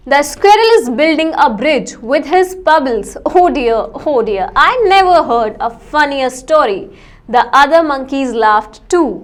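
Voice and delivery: put-on slow, careful read-aloud for children; story reading. Teacher reading the monkey story aloud to students, slow and clear. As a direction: read each word slowly to the class.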